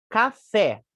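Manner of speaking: "Café" with a strong final FÉ; stress on last syllable. Shown as a demonstration. Teacher showing an oxytone to students, last syllable stressed. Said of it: "última sílaba mais forte".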